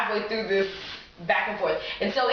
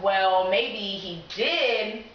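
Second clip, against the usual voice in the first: slow hopeful musing; much slower than usual. Retold or imitated. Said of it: "I was like".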